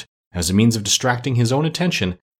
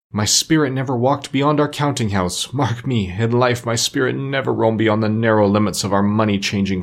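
mildly mournful, solemn declaiming; lightly voiced ghost. Ghost telling Scrooge it cannot rest, understated lament. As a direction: lightly play a restless, burdened spirit.

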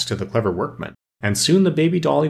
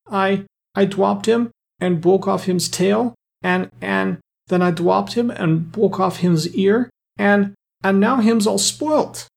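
put-on tearful toddler voice, high and drawn out; halting baby talk, slow mock-sobbing high pitch; Mary, sobbing; 8 semitones higher, slower than usual. A narrator's reading. Little girl explains the broken toy to Claus, sobbing. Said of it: "sobbed Mary".

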